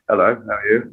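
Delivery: put-on smooth, understated English accent; lightly suave British greeting; sexy British accent. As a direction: charm them in an English accent. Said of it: "the sexy accent".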